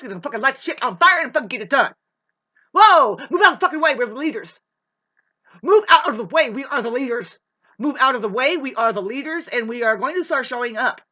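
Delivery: loud, fast battle-cry shouting; rallying shout. Acted. Rallying fellow Aries to charge ahead, shouting. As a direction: fire up the troops at full volume.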